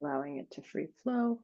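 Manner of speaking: calm, unhurried meditation guide with long pauses; guided meditation. Acted. Guiding a group to breathe into an expanding bubble, calm meditative voice. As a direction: lead them gently through each breath, leaving space.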